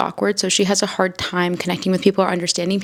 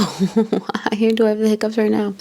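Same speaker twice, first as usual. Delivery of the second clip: laughing; 2 semitones higher, slower than usual. Real, not acted. Laughing at sudden hiccups.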